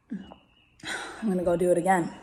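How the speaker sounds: low whispered vow; hushed, determined whisper. Real, not acted. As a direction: whisper it like a secret promise. Quiet defiant vow.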